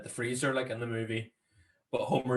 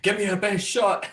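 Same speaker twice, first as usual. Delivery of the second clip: mock bravado; 7 semitones higher, 5 dB louder than usual. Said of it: "runs straight into the house".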